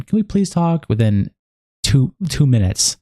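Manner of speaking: high, slow whiny mimicry; mocking whiny voice. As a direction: drag it out like a pleading brat. Mocking the sender's plea.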